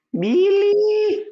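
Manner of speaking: high-pitched loud call across the house; Greek mother calling. Retold or imitated. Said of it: "that's every Greek mother, calling their child".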